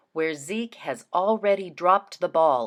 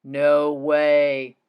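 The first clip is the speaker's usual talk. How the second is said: exclamation; 3 semitones lower, 6 dB louder than usual. Acted. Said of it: "thought Mister Putter".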